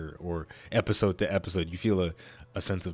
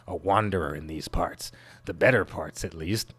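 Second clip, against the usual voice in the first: lilting, swooping silly game-character voice; 3 semitones higher, 4 dB louder than usual. Acted. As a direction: play a wandering creature in a silly singsong. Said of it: "I'll give him a silly voice".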